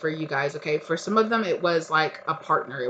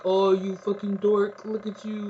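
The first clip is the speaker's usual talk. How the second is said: teasing mockery; 3 semitones higher, slower than usual. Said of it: "making fun of somebody".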